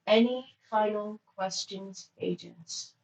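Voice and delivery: strong, even monotone attendant. Acted. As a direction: speak with no rise or fall. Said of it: "with a strong, monotone voice".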